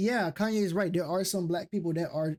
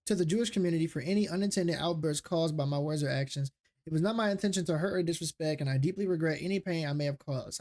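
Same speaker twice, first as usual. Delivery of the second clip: fake apology; 4 semitones lower than usual. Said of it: "And then he posts it".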